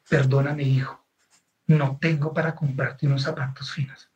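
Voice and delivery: low, subdued retelling of a mother's apology; retold tearful apology. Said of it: "ella venía llorando todo el camino".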